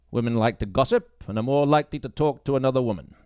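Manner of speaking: dismissive police sergeant lecturing a new recruit; gruff sergeant. Acted. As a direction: talk down to her as the stern boss. Baines gives orders.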